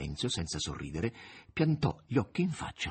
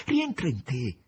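high, slow, frightened woman's voice; frightened plea; 10 semitones higher, slower than usual. Acted. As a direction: plead with him, scared, to see it's real. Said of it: "disse Margherita spaventata".

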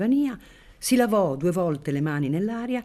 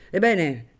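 loud challenge; 3 semitones higher, 4 dB louder than usual. Acted. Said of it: "poi disse".

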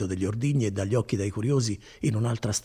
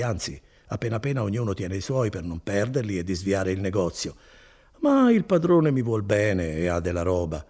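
lightly voiced kindly cousin, proud of his work; Bortolo. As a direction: warm and boastful, an easy hearty tone. Bortolo reassures Renzo. (Bortolo rassicura Renzo, voce bonaria appena accennata)

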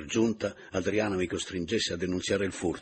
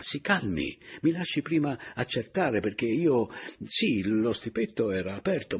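agitated pleading; 3 semitones higher, 4 dB louder than usual. Acted. Agitated man restrains sobbing woman.

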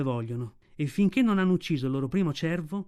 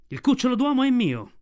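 fierce cry; 8 semitones higher, 6 dB louder than usual. Acted. Mother wolf defies tiger.

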